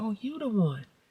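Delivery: quiet mumble under the breath. Retelling what they said to a woman, muttered under breath. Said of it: "I said that real like under my breath".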